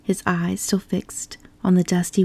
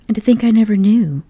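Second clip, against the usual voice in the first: dreamy monotone; 4 semitones higher, 8 dB louder than usual. A narrator's reading. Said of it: "went on Toad in a dreamy monotone".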